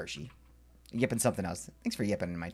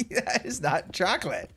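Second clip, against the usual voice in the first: disgusted; 11 semitones higher, slower than usual. Real, not acted. Disgust at Lindor.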